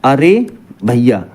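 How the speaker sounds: अरे भैया said slowly, अरे stressed and falling; slow demo call. Shown as a demonstration. Teacher showing students how to say अरे भैया, slowly. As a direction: draw out अरे भैया like calling someone. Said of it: "तो जैसे आप ध्यान दो".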